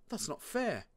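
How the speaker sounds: put-on high-pitched boyish protest. A narrator's reading. Big brother objecting to Dad's ban, high protest. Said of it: "said Marty, the biggest brother".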